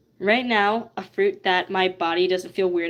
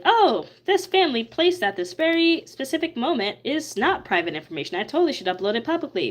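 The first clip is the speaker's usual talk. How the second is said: mocking naive voice; 6 semitones higher than usual.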